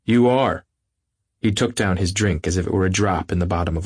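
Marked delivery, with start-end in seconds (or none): 0.0-0.7 incredulous. Acted. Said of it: "looked at her incredulously".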